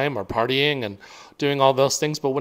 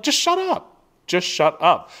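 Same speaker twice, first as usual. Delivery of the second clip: mock self-scolding; 5 semitones higher than usual. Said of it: "I'm like".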